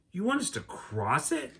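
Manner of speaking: put-on high, light shouted girl's question; mild shout. Annie over the rushing stream, high light shout. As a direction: call over the roaring stream. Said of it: "shouted Annie".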